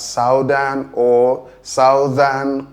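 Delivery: southern with ow as in south; southern said SOW-thern; slow mock mistakes; wrong pronunciation. Shown as a demonstration. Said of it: "commonly pronounced as".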